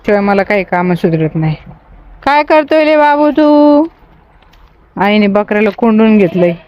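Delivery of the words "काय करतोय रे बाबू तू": high, slow call to the little one. Real, not acted. Calling out to a child. (लहान बाळाला उंच आवाजात हाक)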